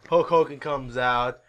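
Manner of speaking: ordinary talk, nothing marked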